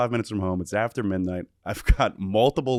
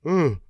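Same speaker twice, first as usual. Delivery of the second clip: short, raised mock grunt; imitated waking groan; 6 semitones higher, 4 dB louder than usual. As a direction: groan like a drunk buddy waking. Imitates drunk buddy waking up.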